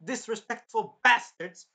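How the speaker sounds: scolding imitated outburst; hammed-up disgusted telling-off; mock indignation. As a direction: curse them out, punching the insults. Voicing Raphtalia cursing the accusers.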